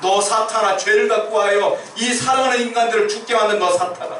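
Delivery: high-pitched indignant denunciation; preacher voicing wrath at an enemy; acted angry outburst. Jesus rebuking Satan for killing people, acted fury. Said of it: "하고 화를 버럭버럭 내고 계시는 거예요".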